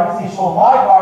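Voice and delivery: "my" stressed, marking whose it is. Shown as a demonstration. Coach showing how emphasis changes meaning, stress on "my". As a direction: put the emphasis on "my". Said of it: "say this sentence a few times".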